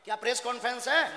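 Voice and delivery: high, quick indignant question; rapid, high-pitched demand; real angry challenge. Real, not acted. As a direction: press him for an answer.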